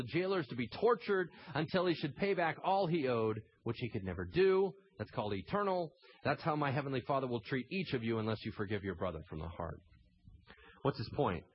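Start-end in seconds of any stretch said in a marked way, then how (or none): none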